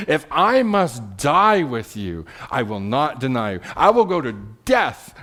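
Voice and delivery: mildly emphatic vow. Acted. Peter swearing he will never deny Jesus, mildly emphatic. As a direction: insist on it, stressing the key words. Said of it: "So Peter just emphatically".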